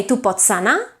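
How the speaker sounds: "tu pots anar" keeping ts unvoiced; wrong voiceless sandhi. Shown as a demonstration. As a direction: keep the ts voiceless on purpose. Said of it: "doesn't sound correct in Catalan".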